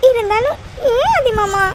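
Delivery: slow, tearful protest; crying. Acted. Wife still upset over husband's tattoo, crying. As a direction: draw out the question through tears. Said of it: "இப்ப நீ அழுகை நிறுத்த போறியா".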